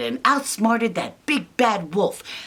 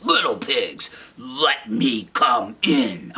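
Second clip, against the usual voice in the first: lower, slow wolf coaxing; 6 semitones lower, slower than usual. Acted. Wolf at the door, lower slow coaxing. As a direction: coax them slowly like a wolf. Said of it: "he says".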